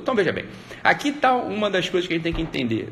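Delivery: normal talking voice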